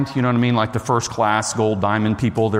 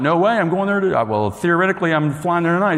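higher-pitched, excited retold reply; excited surprise; 5 semitones higher than usual. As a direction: re-enact an amazed chat with a stranger. Retells delighted surprise at coincidence.

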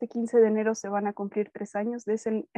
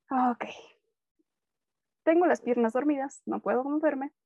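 groggy annoyance; 3 semitones higher, slower than usual. Retold or imitated. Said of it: "esa fue mi expresión".

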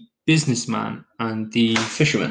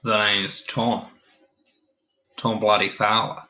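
a bad, hammed-up Australian accent; cheesy Australian accent, self-aware and jokey; awful Australian accent; 2 semitones lower than usual. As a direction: lay on a clumsy Aussie accent for the greeting. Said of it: "that was a pretty awful Australian accent".

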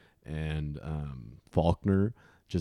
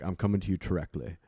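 put-on old Texan accent; faster than usual. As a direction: speak like old folks in Texas, "directly" as "terreckly". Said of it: "how old people in Texas".

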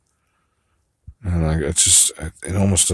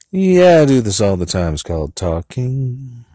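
shouted yeah; 6 semitones higher, 7 dB louder than usual. Shown as a demonstration. Practicing the line with a shouted yeah. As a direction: belt the yeah.

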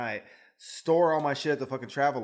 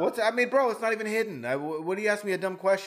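much higher and louder, exasperated; indignant outburst; 6 semitones higher, 4 dB louder than usual. Real, not acted. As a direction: vent at the stupid question. Indignant rant about dumb question.

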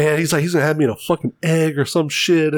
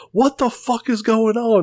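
mock yell; 8 semitones higher than usual. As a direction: imitate a woman yelling, pitched up. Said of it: "I hear Kimberly yell".

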